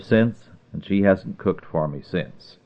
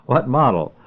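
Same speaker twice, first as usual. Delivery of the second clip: second try at the question, pitched up; 5 semitones higher than usual. A narrator's reading. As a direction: raise it so he finally hears. Clerk repeats unheard question.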